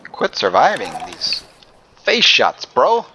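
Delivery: yelling at the game in disbelief; frustrated yell. Real, not acted. Enemy survived head shots.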